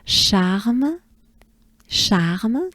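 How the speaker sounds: long open A in charme, throat R, lifted on the final m; slow charme offered for repeating, pitch going up; French model pronunciation. Shown as a demonstration. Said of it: "I'm gonna say charme".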